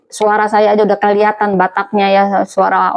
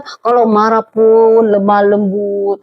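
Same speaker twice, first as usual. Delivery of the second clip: mock gentle; slower than usual. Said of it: "ngomongnya tidak kedengaran".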